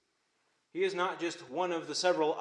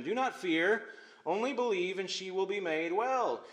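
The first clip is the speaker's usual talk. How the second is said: encouraging; 4 semitones higher than usual. Acted. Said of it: "He's encouraging Jairus".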